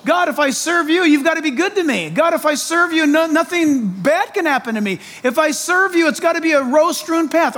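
high, demanding little prayer; mock entitled believer. Preacher mocking a believer bargaining with God, high. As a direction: ask God like he owes you. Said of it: "what we're actually saying is".

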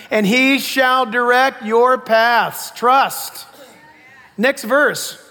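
loud, emphatic Bible teaching; forceful preaching. Real, not acted. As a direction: drive each verse home to the congregation.

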